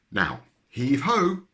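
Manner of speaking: loud, drawn-out heave ho; rally the team to pull together; slow heaving call. A narrator's reading. Percy calling the animals to pull the rope, loud.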